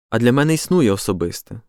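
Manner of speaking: "А для мене існує особисте" said firmly, with weight; pointed emphasis. A narrator's reading. Peter counters Thomas on "особисте", with pointed emphasis. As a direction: lean hard on "А для мене" in a pointed retort. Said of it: "з притиском зауважив Петро".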